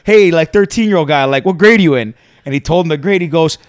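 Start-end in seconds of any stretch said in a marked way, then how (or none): 0.0-2.1 imitated kid. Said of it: "Then the one kid goes".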